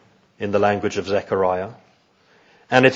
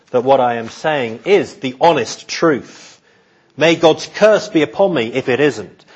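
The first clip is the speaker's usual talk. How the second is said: vehement oath; 3 semitones higher than usual. Acted. Peter assures bystanders of his honesty, vehemently sworn. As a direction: insist on it as solemn truth. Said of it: "his most vehement and vigorous".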